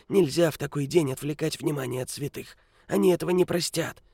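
put-on high, croaking old beggar; grumpy old man. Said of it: "закряхтел старик".

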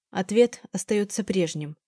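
slow, cold, measured refusal; slow, icy reply that shuts the question down; cold and distant. Acted. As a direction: hold him off coldly, slowly. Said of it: "Холодно проговорила я".

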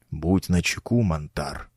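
urgent whisper into the ear; whispered warning. A narrator's reading. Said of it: "шепнул мне на ухо учитель".

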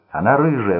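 bloodied man shouting answer at Max. A narrator's reading. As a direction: blurt it out. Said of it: "выкрикнул Рой".

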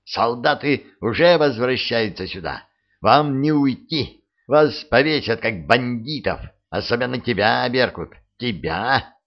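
mild hysterical shouting; frantic shouting hostage taker. Acted. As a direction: shout threats in a panic. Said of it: "выкрикнул он последнюю фразу на ломаном русском". (истеричные выкрики)

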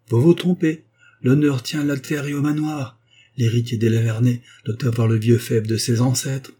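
firm indignation. Acted. La sœur défend l'honneur familial.

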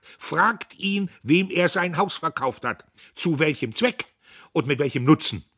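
loud, high challenge; loud, high accusing speech; accusing old orator. A narrator's reading. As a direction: demand answers from the hall. Old man challenges Diederich.

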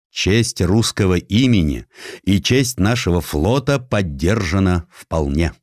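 ordinary delivery, nothing marked

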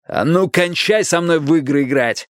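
roused, threatening demand; mild angry yell. A narrator's reading. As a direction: bellow it with some restraint. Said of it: "заорал Страйк".

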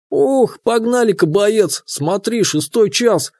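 high, rushed alarm about time; hurried urgency. A narrator's reading. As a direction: hurry them out the door. Руслан спохватился, торопится. (спохватившись, торопливо)

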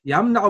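يمنع pronounced "yamna'u"; fatha on the middle letter. Shown as a demonstration. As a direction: give يمنع an a vowel, yam-na-'u. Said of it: "بفتح العين جاء". (نطق يمنع بفتح العين: يَمْنَعُ)

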